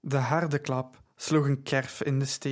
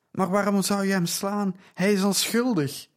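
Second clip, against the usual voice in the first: she cries out, pleading his innocence; crying out; 6 semitones higher than usual. Acted. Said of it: "riep Lydia".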